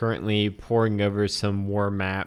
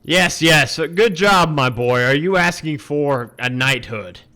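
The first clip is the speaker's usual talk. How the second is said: lordly baron voice; 4 semitones higher, 6 dB louder than usual. Acted.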